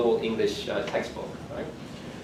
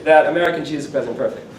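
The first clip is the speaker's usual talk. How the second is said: laughing through a put-on British RP accent; imitating a Chicago-born man's RP accent, through laughter; mock RP accent; 6 semitones higher, 5 dB louder than usual. Retold conference quip from O'Neill, in a mock RP accent. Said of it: "speaking in R P accent".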